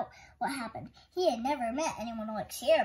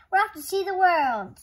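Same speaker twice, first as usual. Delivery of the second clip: excited cry; 5 semitones higher, 8 dB louder than usual. A narrator's reading. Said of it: "she cried".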